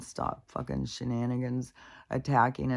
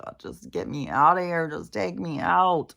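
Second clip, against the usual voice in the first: fed-up pleading; 4 semitones higher, 4 dB louder than usual. Retold or imitated. Speaker feeling so shitty, half-joking plea to be taken out. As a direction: beg half-jokingly for it to end. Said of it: "feeling so shitty".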